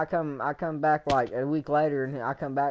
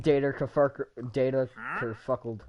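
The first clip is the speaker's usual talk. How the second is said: robot voice. Pretend. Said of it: "Data corrupted".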